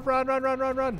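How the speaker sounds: loud, high panicked yelling; yelling while running away. Real, not acted. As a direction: yell it as you flee. Fleeing in game.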